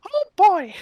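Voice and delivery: high, loud excited exclamation; excited shout. Real, not acted. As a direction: burst out with excitement. Excited reaction to game play.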